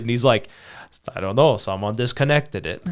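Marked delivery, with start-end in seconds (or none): 1.2-2.8 lightly mimicked Russian accent; retelling it in a mild Russian accent; imitated Russian accent. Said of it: "The weird Russian accent sounding guy".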